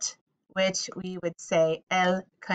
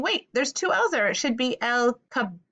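pitched up high, voicing a confused learner; puzzled student; 4 semitones higher than usual. Teacher voicing a puzzled student, higher and questioning. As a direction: play the kid who spots the double L. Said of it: "Now, you're saying".

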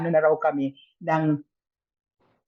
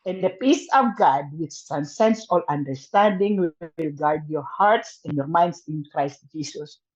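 slow, measured Bible verse reading; scripture recitation; 2 semitones lower, slower than usual. Acted. To a fellow patient, reciting a comforting Bible verse slowly.

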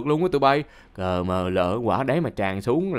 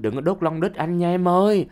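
higher-pitched pleading yell, no real volume; mock cry of alarm; 6 semitones higher than usual. Man begging the girl not to burn him, mild mock yell. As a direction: imitate wanting to yell out in protest. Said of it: "Tao định hét lên".

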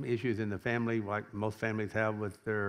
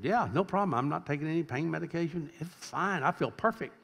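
higher-pitched, upbeat imitation; retold breezy reassurance; 6 semitones higher than usual. Healed sister reporting on the phone, retold as breezy reassurance. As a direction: lightly act out someone feeling perfectly fine.

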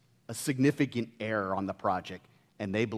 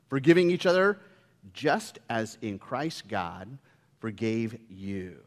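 measured, earnest Bible reading; scripture reading. Acted. Pastor reading Ephesians to the congregation, measured and earnest. Reads scripture passage aloud.

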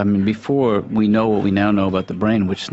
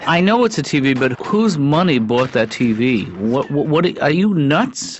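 scolding father; 3 semitones higher than usual. Acted. Dad scolding about the money.

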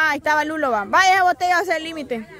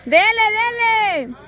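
slow, high, drawn-out cheer; 4 semitones higher, slower than usual. Real, not acted. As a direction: stretch out the cheer for the player. Host cheers player on, slower.

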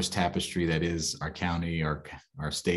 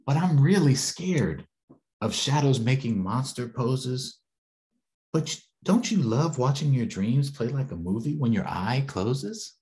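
put-on scared child; 5 semitones higher than usual. Child voice pleading fear.

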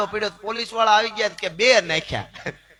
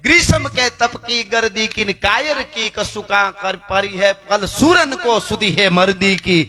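poem recitation; 3 dB louder than usual. Acted. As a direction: recite the old verse with measured cadence. Recites a Hindi verse. (દોહો લયમાં, કાવ્યપઠનની જેમ)

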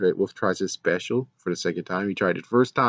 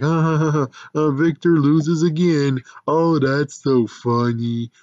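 higher, louder fake laughing taunt; mocking laugh; 6 semitones higher, 4 dB louder than usual. Simone's side jeering at Victor with a hammed-up laugh. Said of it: "trying to make fun and be like".

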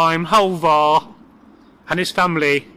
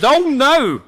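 mock dismay; 8 semitones higher, 5 dB louder than usual. A narrator's reading. Farmer cleverly answers the troll.

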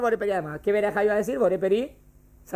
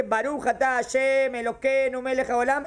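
reciting a blessing; 3 semitones higher than usual. Acted. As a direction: draw the blessing out evenly, word by word. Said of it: "Cuando yo dije".

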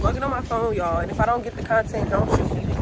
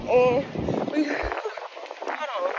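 panting between words; winded, catching breath while talking; 5 dB quieter than usual. Real, not acted. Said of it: "Gotta catch my breath".

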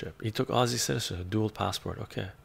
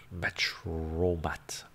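whisper; 4 semitones lower, 4 dB quieter, much slower than usual. Real, not acted. Whispered name.

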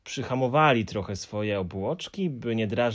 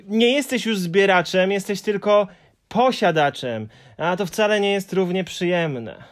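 thoughtful Moomin; 9 semitones higher, 7 dB louder than usual. A narrator's reading. Moomin working it out for the Hemulen, thoughtful.

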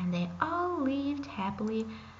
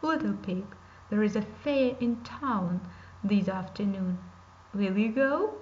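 a louder, sly wolf character; 3 semitones lower, 3 dB louder than usual. Acted. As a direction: voice the scheming wolf, a bit louder.

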